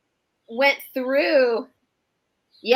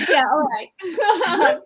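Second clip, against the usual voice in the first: laughing; 4 semitones higher, much slower than usual. Real, not acted. Laughing through the Southern bit.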